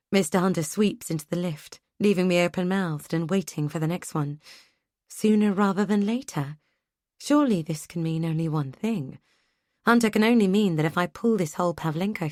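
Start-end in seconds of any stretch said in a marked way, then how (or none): 5.1-6.6 disbelieving question, rising; incredulous echo. Acted. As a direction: turn the phrase over in wonder.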